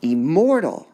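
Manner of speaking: "Immortal" as im-MOR-tal, MOR high and loud; unstressed, stressed, unstressed. Shown as a demonstration. Teacher gives the answer, stress on MOR in "Immortal". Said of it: "Unstressed, stressed, unstressed".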